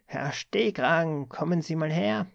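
sharp rasping summons. A narrator's reading. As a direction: drag him over with a harsh order. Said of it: "schnarrte dann plötzlich eine scharfe Stimme".

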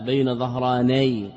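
ظهراني said ẓahrānay, with an open a on the nun; careful pronunciation. Shown as a demonstration. Teacher to students, spelling out ظهراني slowly, ẓahrānay with open nun. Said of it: "بفتح النون".

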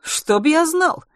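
high, loud, drawn-out retort; mock ignorance. A narrator's reading. Cal dodging Ruth's question, mock ignorance. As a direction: stretch it out with exaggerated innocence. Cal's mocking retort to Ruth.

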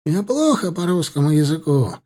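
high, halting broken Russian; pleading captive. A narrator's reading. Captive pleading he doesn't understand Russian. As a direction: plead ignorance desperately. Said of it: "взмолился он".

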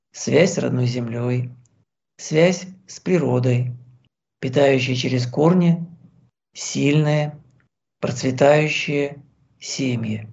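calm, even meditation voice with long pauses; guided meditation. Acted. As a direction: gently guide the listener inward.

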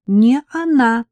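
cheerful and a touch loud. A narrator's reading. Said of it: "подтвердила весело девушка".

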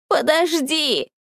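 high, slow desperate plea; умоляй его остановиться; pleading. A narrator's reading. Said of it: "взмолилась Инио". (мольба)

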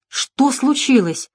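put-on young woman's startled, fearful question; frightened. A narrator's reading. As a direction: ask timidly, scared of the noise. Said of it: "испуганно спросила она".

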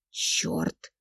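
breathless whispered oath; whispered curse. A narrator's reading. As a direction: hiss the curse under breath. Inner curse at realisation.

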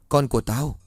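rising in pitch, desperate wail; anguished scream. Acted. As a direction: cry out for the stolen baby. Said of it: "Yến đau đớn gào thét trong bất lực".

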